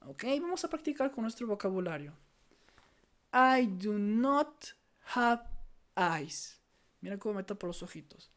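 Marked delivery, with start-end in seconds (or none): 3.3-6.6 loud, very slow, word-by-word teaching delivery; slow model sentence. Shown as a demonstration. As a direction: stretch "I do not" high and loud, then pause. Teacher models practice sentence slowly.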